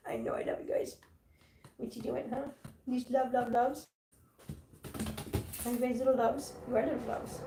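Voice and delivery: very soft, adoring pet talk; soft cooing. Real, not acted. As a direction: murmur lovingly to tiny pets. Cooing softly to kittens.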